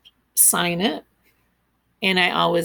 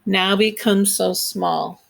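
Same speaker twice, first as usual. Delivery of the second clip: slow haiku reading; slower than usual. Shown as a demonstration. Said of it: "That's five".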